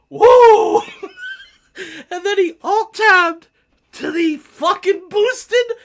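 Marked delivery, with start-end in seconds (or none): 0.1-0.8 high, loud laughing "Woo!" shout; Ric Flair woo. Retold or imitated. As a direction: let out a wrestler's whooping woo through laughter. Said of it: "He hit him with the Ric Flair ... And he said".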